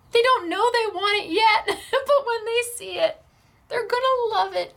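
real emotion rising in the voice, close to tears; tearing up. Real, not acted. Moved crafter promising to pass a gift on, tearing up. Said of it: "you're gonna make me cry".

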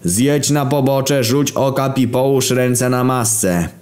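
high, slow, commanding cop voice; police officer. Acted. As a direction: order the driver slowly like a cop. Police chase with sirens. (policjant wydaje polecenia)

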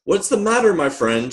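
high, friendly little-engine voice; gentle storybook concern, high-pitched; kind asking. A narrator's reading. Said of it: "she asked kindly".

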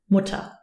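"Mutter" ending in a schwa-like a; silent final R. Shown as a demonstration. Teacher comparing German to English mother, R left unheard. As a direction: say "Mutter" as mu-ta, without the R. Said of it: "you don't hear the R either".

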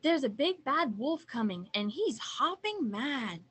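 goose in a flap, loud and bouncing in pitch; flustered cry. A narrator's reading. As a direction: cry out the alarm. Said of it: "cried the Google-eyed goose all in a flap".

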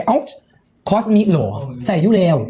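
lightly startled double-take; mildly surprised recognition; retold surprise. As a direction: replay a moment of pleasant shock. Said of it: "ฉันก็เลยตกใจ".

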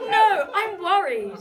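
high laugh, then slow line. Real, not acted. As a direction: giggle before speaking.

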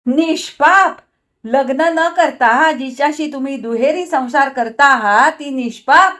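high, loud and fierce; fierce scorn. A narrator's reading. Wife scornfully mocks the word innocent, fiercely. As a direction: throw his word back at him. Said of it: "विचित्र हास्य करीत त्वेषाने म्हटले".

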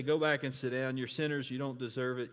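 mock harsh rebuke; stern rebuke. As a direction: bark it at them like a scolding judge. Imagined harsh rebuke from Jesus.

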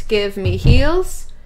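drawn-out, rising count-in to the beat; teacher counting in, stretched out; slow count-in. Shown as a demonstration. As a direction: cue the class in slowly. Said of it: "slow count-in".

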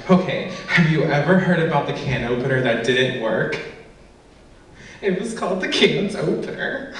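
laughing through joke. Real, not acted. Set-up and punchline.

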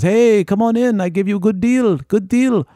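high, loud, eager sales pitch; eager camel tout. Retold or imitated. Camel guide luring a tourist, high eager pitch. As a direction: sell it like a pushy street tout.

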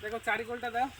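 winded from the climb; out of breath, catching air; heavy breathing. Real, not acted. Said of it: "হাঁপিয়ে গেছি". (হাঁপাতে হাঁপাতে)

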